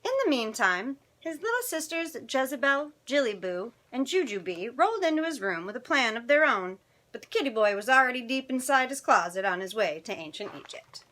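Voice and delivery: animated picture-book narration; children's story reading. A narrator's reading. Storyteller reading tonight's picture book to children, animated. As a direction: read it expressively to young listeners.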